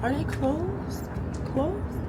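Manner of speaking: dismayed surprise. Real, not acted. Finding the restaurant shut.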